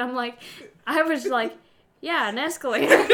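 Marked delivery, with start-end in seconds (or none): 2.0-3.1 laughing imitation. Acted quote, then laughs.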